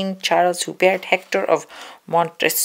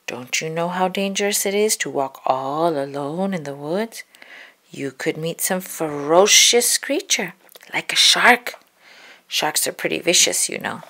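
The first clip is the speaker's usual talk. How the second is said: low, lightly voiced wolf warning; a hint of a deep wolf voice; wolf teasing the girl about danger. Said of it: "in his deep voice".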